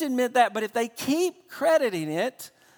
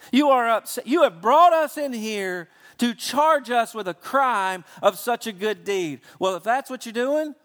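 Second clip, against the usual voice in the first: incredulous Peter; 3 semitones higher than usual. Retold or imitated. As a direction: lay out the absurd charge, indignant and raised. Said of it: "And Peter says".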